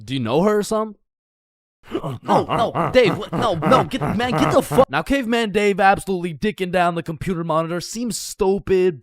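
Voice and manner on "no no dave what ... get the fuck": panicked shooing. Acted. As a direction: shoo him off, panicking. Shooing caveman off monitor.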